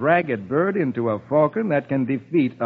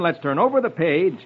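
plain reading voice

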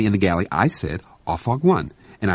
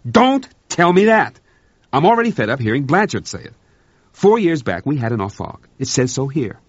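louder, higher angry shout; 7 semitones higher, 4 dB louder than usual. Acted. Officer to Berman, frustrated, shouting. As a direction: bark it out in frustration. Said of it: "McNaught shouted".

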